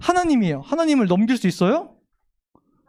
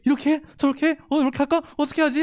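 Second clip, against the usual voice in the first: fretful Jacob; 4 semitones higher, faster than usual. Retold or imitated. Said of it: "발 동동 구르면서 고민을".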